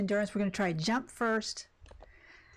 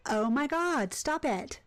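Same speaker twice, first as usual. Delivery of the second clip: mock exasperation; 5 semitones higher, slower than usual. Replays own reply to husband.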